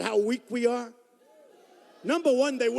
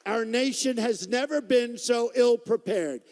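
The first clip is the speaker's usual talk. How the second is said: mock general quote; 3 semitones higher, 5 dB louder, slower than usual. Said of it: "saying things like".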